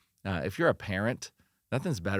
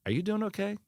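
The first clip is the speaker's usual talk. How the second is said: much higher-pitched, searching question to oneself; honest self-check; 7 semitones higher than usual. Acted. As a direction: check in with yourself, pitched high. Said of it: "have an honest conversation of".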